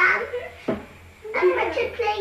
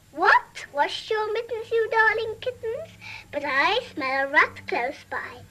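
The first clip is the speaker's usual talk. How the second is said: sing-song rhyme read to a small child, voicing the kittens and mother; playful nursery rhyme telling; nursery rhyme recital; slower than usual. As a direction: recite it like a bedtime rhyme for a toddler.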